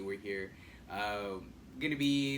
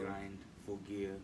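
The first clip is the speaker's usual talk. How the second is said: put-on German accent; 3 semitones lower, 7 dB quieter, slower than usual. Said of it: "He must be German".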